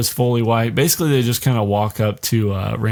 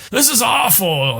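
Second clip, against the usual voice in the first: mock dramatic lament; 9 semitones higher, slower than usual. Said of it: "and he's just like".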